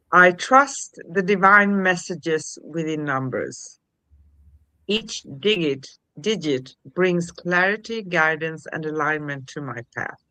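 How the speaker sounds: measured affirmation reading with deliberate pauses; affirmation read aloud. Shown as a demonstration.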